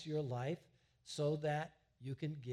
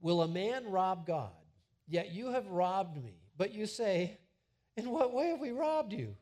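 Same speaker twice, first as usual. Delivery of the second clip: scripture reading; 3 semitones higher, 5 dB louder than usual. Acted. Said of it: "I'm gonna read it to you".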